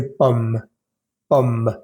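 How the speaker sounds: "pomme" ending on the M; "pomme" as one syllable, no e; silent final e. Shown as a demonstration. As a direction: say French "pomme" closing on M with a small puff of air. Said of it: "da la impresión de que estoy pronunciando la E".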